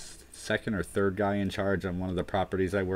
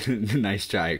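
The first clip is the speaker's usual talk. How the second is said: laughing; 3 dB louder than usual. Shown as a demonstration.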